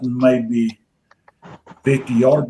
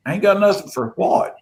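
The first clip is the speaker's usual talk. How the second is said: high-pitched questioning comeback; puzzled group retort; 7 semitones higher than usual. Retold or imitated. Friends questioning Rob's odd remark, puzzled retort. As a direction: imitate friends asking what on earth he means. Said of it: "And we're all like".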